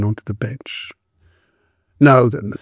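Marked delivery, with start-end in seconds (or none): 2.0-2.5 encouraging. Acted. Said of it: "the constable said encouragingly".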